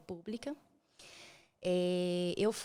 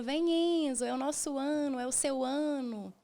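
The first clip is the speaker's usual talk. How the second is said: raised, happy New Year cheer; retold celebratory call, higher pitched; joyful calling out; 5 semitones higher, 4 dB louder than usual. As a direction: welcome the baby with rising excitement. Revive o brinde da virada.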